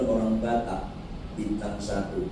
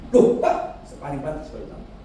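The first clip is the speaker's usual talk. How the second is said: snapping at him; faster than usual. Retold or imitated. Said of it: "Saya bentak".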